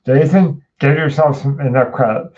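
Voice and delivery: mock his big booming voice. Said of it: "that, that booming voice".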